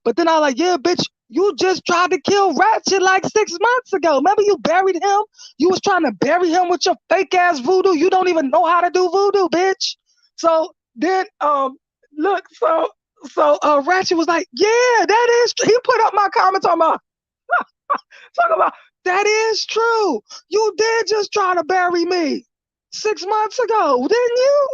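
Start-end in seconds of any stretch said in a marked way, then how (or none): 0.6-10.0 higher, jeering; gleeful mock jeer; mocking taunt. Taunting her on stream. 14.5-24.7 high gloating impression of Ratchet; imitating Ratchet. Imitating Ratchet, much higher.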